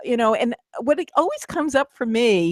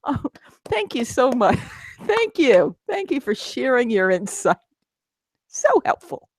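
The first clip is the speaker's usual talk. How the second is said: sarcastic thanks; 3 semitones higher than usual. Retold or imitated. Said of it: "the snarky side of me started going".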